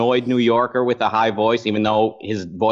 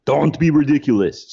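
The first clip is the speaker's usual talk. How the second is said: Ben Shapiro; 4 semitones higher, 3 dB louder than usual. Retold or imitated. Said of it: "He'll just say".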